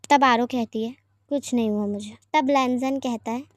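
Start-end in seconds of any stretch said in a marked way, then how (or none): 1.3-2.2 low, sulky mumble; sulky daughter, low and short; sulky reply. Acted. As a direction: brush it off with a pout. Aaro sulking at dinner.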